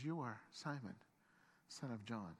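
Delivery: low, hushed, weighty pronouncement; intent. Acted. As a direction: drop low and soft, pausing before the last phrase. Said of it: "He looked at him intently".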